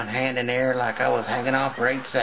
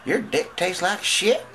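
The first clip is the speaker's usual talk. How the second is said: put-on high slow girl voice; 5 semitones higher, 3 dB louder than usual. Daughter complains to daddy.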